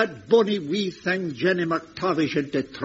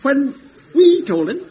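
alarmed echo; 5 semitones higher, 6 dB louder than usual. Acted. Echoing in alarmed disbelief.

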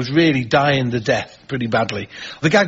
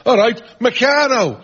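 high, drawn-out mock shout; slow heckle called from the crowd; imitated heckler's shout; 8 semitones higher than usual. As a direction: drunk heckler's retort, pitched up. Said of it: "this fella shouted out".

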